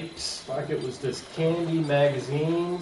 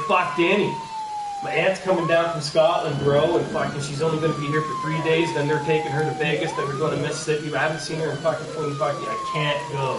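excited retold excuse; 3 semitones higher, 4 dB louder than usual. Retells own excuse to Danny.

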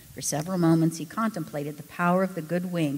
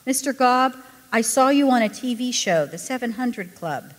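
nervous, high and louder; quick nervousness; 7 semitones higher, 7 dB louder than usual. Acted. Millie nervously introducing herself to Ken, anxious. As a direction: blurt it out anxiously. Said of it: "with a quick nervousness".

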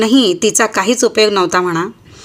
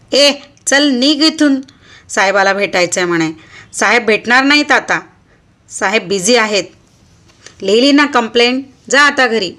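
shouting policeman. Acted. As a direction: yell at her to get out. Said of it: "जोराने ओरडून तो म्हणाला". (पोलिसाचं ओरडून हाकलणं)

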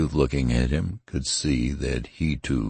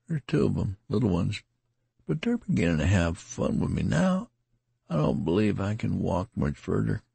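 wounded soldier voice; 6 semitones higher than usual. Acted. Tattered soldier speaks, wounded.

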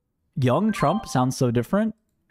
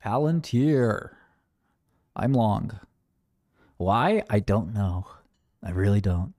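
put-on voice. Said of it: "I'm gonna get stuck talking like this".

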